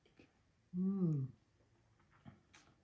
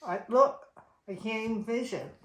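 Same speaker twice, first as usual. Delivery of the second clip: overwhelmed by spice; 4 semitones higher, 7 dB louder than usual. Real, not acted. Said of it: "It's too hot".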